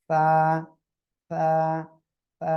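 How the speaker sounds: সা with tongue tip on upper teeth, light air escaping; lightly aspirated সা. Shown as a demonstration. Teacher models the letter for the class, lisped airy সা. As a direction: let a little breath out through the teeth on সা. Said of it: "হালকা বাতাস বের করে".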